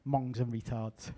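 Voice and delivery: slow, deliberate instruction; drawn out, emphatic instruction. Shown as a demonstration. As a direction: spell it out slowly for the crowd. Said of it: "whenever I say Yanks".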